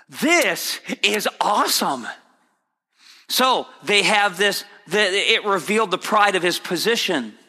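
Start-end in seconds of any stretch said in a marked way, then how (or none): 0.1-2.1 slow, awestruck this is awesome; awed disciples. Retold or imitated. Preacher voicing disciples, slow and awestruck. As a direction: draw it out like a starstruck disciple. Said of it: "Peter and the other disciples are going".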